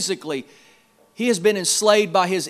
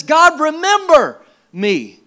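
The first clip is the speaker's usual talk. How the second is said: loud, higher, slow cry to heaven; Job's cry; 8 semitones higher, 7 dB louder, slower than usual. Acted. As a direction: call out to heaven in pain. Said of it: "he looks toward heaven and he says".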